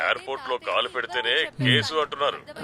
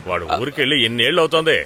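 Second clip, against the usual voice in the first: loud, raised-pitch reply; calling out; 3 semitones higher, 5 dB louder than usual. Acted. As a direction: call it out as if across a yard. Uncle calls back to a visitor.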